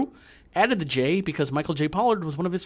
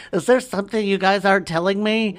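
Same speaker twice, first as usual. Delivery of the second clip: suspicious character; 6 semitones higher than usual. Retold or imitated. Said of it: "and he's like".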